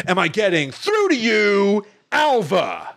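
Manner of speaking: high, strained Cage outburst; Nicolas Cage impression. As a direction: squeeze it out high like a manic Cage. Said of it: "And he goes".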